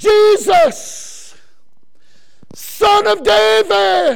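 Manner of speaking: put-on very slow, rough-edged, loud drawn-out shout. Acting out calling to Jesus from way over here, a loud shout. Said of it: "I like this kind of stuff because I'm loud. Are you ready?".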